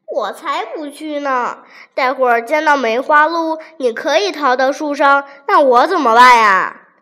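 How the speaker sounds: building panicky no, ending loud; scared refusal. Acted. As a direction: tiger refusing, voice swelling in alarm. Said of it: "老虎说什么也不肯去".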